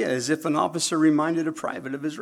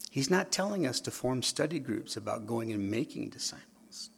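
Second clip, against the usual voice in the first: preacher whispering a point to the congregation; whispered aside; 7 dB quieter than usual. Real, not acted. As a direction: drop to a whisper for emphasis.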